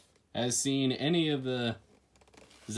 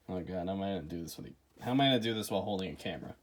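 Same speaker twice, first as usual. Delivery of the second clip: fast, strained while lifting; straining under weight; 4 semitones lower, much faster than usual. Real, not acted. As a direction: talk while hauling a heavy box. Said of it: "God damn, this is heavy".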